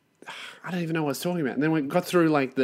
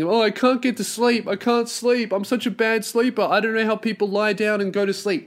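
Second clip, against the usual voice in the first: higher, lightly whining imitation of bad sleepers; mock whiny complainer; 5 semitones higher than usual. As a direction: mimic people moaning they can't sleep. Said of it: "All these people complaining".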